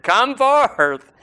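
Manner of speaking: booming command to rise; commanding call. Shown as a demonstration. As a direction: call Come forth out to the tombs. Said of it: "If he had just said".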